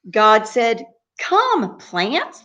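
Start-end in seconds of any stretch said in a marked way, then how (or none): 1.2-2.4 high, sing-out summons; calling out to creation. Acted. God summons the plants, high sing-out call.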